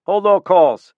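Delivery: loud, high, curt command; barked order. Acted. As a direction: cut the secretary off hard. Boss barking at intercom.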